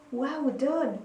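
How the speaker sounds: ordinary talk, nothing marked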